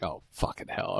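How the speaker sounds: unvoiced, under the breath; whispered oh no; muttered dread. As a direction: whisper it in horror. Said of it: "that's where you're like".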